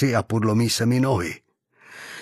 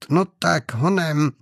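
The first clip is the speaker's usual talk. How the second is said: raised-pitch impatient prod; urging on; 5 semitones higher, slower than usual. A narrator's reading. Gunman prodding frozen hostages to move, urgently. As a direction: hurry them along with raised pitch. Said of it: "popohnal je Čepelka".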